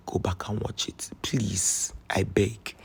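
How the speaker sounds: soft breathy whisper begging; whispered plea. Real, not acted. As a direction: beg in a hushed whisper. Pleading with viewers to rewatch.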